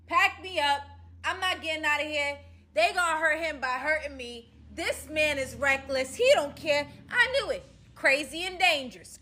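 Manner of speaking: loud, high hammed-up panic; panicking out loud, for show; mock panic. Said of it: "And I go".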